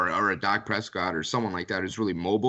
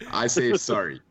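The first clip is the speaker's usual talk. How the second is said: sorry said the Canadian way, soh-ree; 4 dB louder than usual. Shown as a demonstration. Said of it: "was it more like sorry or sorry?".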